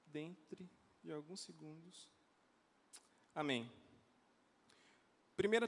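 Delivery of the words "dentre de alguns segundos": soft, slowing automated phone message; lightly voiced telemarketing robot. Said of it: "Como aqueles robozinhos telemarketing falam".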